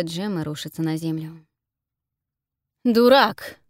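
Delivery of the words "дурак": loud, higher furious yell; angry shout. Acted. Amar yelling at the Ghost who spilled blood, angry. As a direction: bark the insult in rage. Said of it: "кричит Амар".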